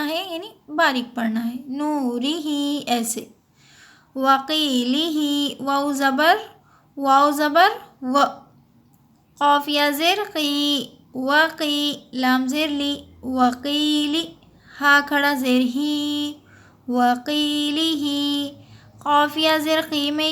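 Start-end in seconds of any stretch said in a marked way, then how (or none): 1.7-2.8 नूरिही with रा light and thin, not full-mouthed. Shown as a demonstration. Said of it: "रा को बारीक पढ़िए". 4.2-18.5 slow, measured spelling chant; teacher spelling वकीलिही slowly; slow recitation drill. Shown as a demonstration.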